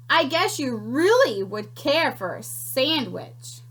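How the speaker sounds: high, slow crackling creature voice; crackly creature. Acted. Small sandwich creature greeting the piglet, high and crackly. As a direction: crackle it out with relish. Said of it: "she crackled".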